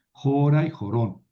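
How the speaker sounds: jora stressed on JO, jorón on the final RON; accent demonstration. Shown as a demonstration. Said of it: "el acento no se mueve".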